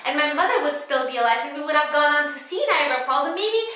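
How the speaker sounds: loud, high comic outburst; acted rant. Cass blowing up over the husband, high loud acted rant. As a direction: let the regret erupt high and loud.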